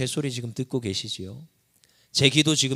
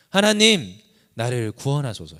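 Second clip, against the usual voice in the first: crying out to God; 4 dB louder than usual. Acted. David's plea voiced.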